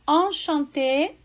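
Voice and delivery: enchanté with nasal an sounds, ɑ̃ʃɑ̃te; French enchanté. Shown as a demonstration. Teacher to student: French enchanté. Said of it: "tem o E N".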